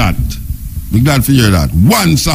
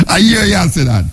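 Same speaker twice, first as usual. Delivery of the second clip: normal talking voice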